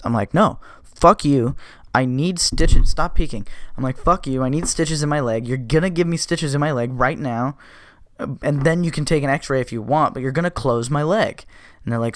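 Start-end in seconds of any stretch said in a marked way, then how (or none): 0.3-3.5 mildly angry re-enacted demand, loud and emphatic; retold pissed-off refusal. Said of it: "I'm immediately pissed". 4.0-11.5 mildly irate, insistent re-enactment without shouting; retold pissed-off demand. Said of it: "I'm immediately pissed".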